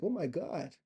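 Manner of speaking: high, halting mock astonishment; imitating an amazed, stammering bystander; gawking white onlooker. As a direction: slowly puzzle it out in a put-on high voice. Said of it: "they'd be like".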